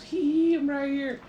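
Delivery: very high, loud teasing squeal; playful giggly girl. Acted. Invisible J J teasing Perseus, high giggly voice.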